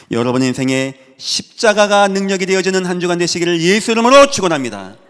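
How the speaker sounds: loud, high, swelling pulpit cry; full-force preaching blessing. Real, not acted. Preacher blessing the congregation in Jesus's name, loud and fervent. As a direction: drive the blessing out to the whole church.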